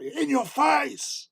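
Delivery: high, slow, drawn-out taunt; playful imitation of gloating; mock gloat. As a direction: crow it like a cocky kid. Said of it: "but I thought".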